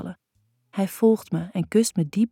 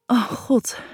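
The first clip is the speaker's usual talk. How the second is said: higher, lightly acted moan; moaned exclamation; 5 semitones higher than usual. A narrator's reading. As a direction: let the words out as a restrained moan. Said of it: "kerm ik als ik plots". (licht gespeeld gekerm)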